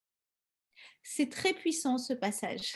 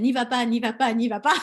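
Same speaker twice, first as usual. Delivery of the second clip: mock warning; 5 dB louder than usual. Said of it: "il a dit".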